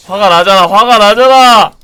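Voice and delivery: angry shout. Real, not acted. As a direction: roar it out in real frustration. Streamer raging at opponent.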